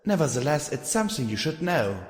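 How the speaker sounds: lightly voiced bored teacher; a hint of disinterest, flat duty. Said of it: "with a bored, disinterested sigh".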